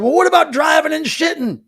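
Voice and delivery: high, loud comic pitch; mock-excited retort. Imagining her reply to the bandmate, mock-excited. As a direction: blurt the silly suggestion loudly and high.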